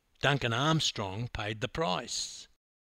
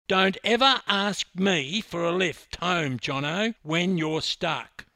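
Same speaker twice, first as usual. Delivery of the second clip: loud, raised, indignant warning; accusing; 6 semitones higher, 7 dB louder than usual. Acted. Swimmer rounding on the teammate who refused him, accusing. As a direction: lash out at one teammate. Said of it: "he pointed his finger at Jono".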